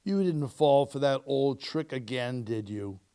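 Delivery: calm her gently; low, calm voice. Acted. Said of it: "in a low, calm voice".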